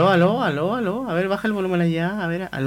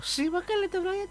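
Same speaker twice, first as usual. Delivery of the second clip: squeaky high voice; 13 semitones higher, 11 dB quieter than usual. Pretend. Mocking squeaky mic test.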